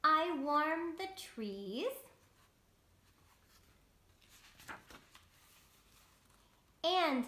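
lightly voiced slow storybook sun; sun character. Reading the sun's lines to children, lightly voiced. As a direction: read it slow and kind as the sun.

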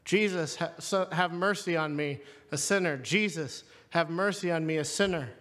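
low, even recited prayer; murmured monastic repetition, lightly imitated; repetitive prayer. Shown as a demonstration. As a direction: recite it over and over like a litany. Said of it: "used as a repetitive prayer".

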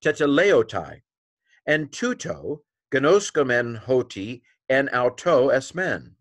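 slow, deliberate reading, word by word; careful Greek read-through. Shown as a demonstration. Teacher tries to read it all for learners, slow and deliberate. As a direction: sound out the Greek slowly and carefully. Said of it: "Okay, I tried".

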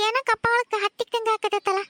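slow, drawn-out wondering; puzzled. Acted. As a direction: feel it out slowly. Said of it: "slow puzzled first take". (ನಿಧಾನವಾಗಿ ಗೊಂದಲದ ದನಿ)

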